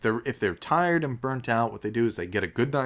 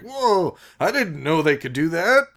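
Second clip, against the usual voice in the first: startled; 5 semitones higher than usual. Retold or imitated.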